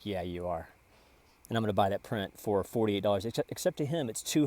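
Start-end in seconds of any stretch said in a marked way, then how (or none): 0.0-0.7 impressed guy. Retold or imitated. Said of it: "He's like".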